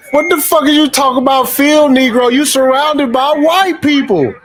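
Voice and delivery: incredulous. Real, not acted. Vlogger mocking the man's field Negro talk, incredulous. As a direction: scoff up high at the absurdity.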